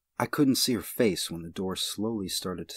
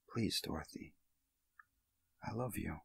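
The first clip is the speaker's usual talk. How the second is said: weak sob; 11 dB quieter than usual. Acted. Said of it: "could only sob weakly".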